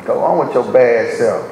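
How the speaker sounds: "bad" weighted in "Go on with your bad self."; stress on bad. Shown as a demonstration. Preacher teasing a church member, stress on "bad". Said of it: "Emphasis being on bad".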